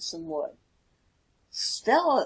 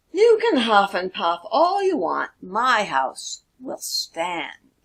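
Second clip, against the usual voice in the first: louder then slow and firm; confident pig; 4 dB louder than usual. Acted. Stella defies the wolf, slow and firm. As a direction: stand your ground, slowing on the last words. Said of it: "said Stella".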